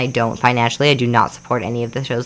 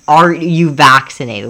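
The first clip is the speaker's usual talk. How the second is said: slow, louder threatening question through a laugh; mock gunman demand; 5 dB louder, slower than usual. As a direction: play the armed intruder half-laughing. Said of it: "they say".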